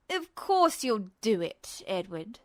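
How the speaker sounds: slow, low and detached; dispassionate villain. Acted. Justin answers Ed, cool and detached. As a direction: say it coolly amused. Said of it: "the man said dispassionately".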